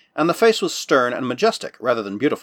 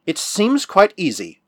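slow, smug and superior; 5 semitones higher, slower than usual. Acted. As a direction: talk down to them lightly. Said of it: "I said in a superior tone".

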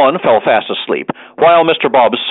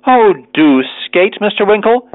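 coaxing; 8 semitones higher than usual. A narrator's reading. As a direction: draw out a sweet plea, pitched up. Arabella coaxes Winkle to skate.

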